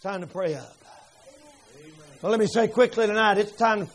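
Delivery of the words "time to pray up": "pray" slow, much lower and softer; slow low repeat. Acted. Preacher repeats the call, slow and hushed. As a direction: drop to a slow hush on "pray up". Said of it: "repeated phrase".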